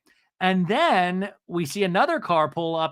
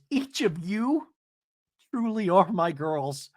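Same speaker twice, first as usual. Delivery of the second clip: slow, overdone mock sincerity; lightly imitated dramatic declaration; Lexi; 3 semitones higher, slower than usual. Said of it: "take it down all the notches".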